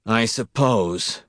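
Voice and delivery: very slow, drawn-out resigned sigh of words. Acted. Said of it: "Wisconski said miserably".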